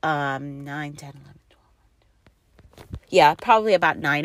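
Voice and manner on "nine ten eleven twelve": whispered counting, much softer; tally the hours in a private whisper; counting under breath. Real, not acted. Mom working out labor hours, whispered.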